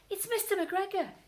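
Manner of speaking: high loud panicked cry; scared. Acted. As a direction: shriek it in fear. Peter sees McGregor.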